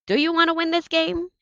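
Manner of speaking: high, loud rallying shout to the team. Acted. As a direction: fire the whole team up with a big shout. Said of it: "Victor shouted".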